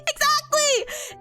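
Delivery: high, slow stretched Exactly!; Exactly! sung out long and high; drawn-out exclaim. Real, not acted. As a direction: drag out Exactly! high like a cheer. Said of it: "Exactly! repeated, second stretched".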